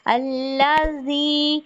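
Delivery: अल्लाजी with ज as dh, tongue tip at teeth edges; touch the tooth tips for the ज of अल्लाजी; dhal at tooth tips. Shown as a demonstration. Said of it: "जुबान की नोक को दांतों के सिरों से". (अल्लाजी में ज़ाल दांतों के सिरों से)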